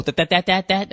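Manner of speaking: "that" fired off over and over like a stutter; Porky Pig stammer. Retold or imitated. Podcaster mocking his own slip, stammering on "that". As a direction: mimic your own stuck, repeating "that". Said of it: "I sound like fucking Porky Pig".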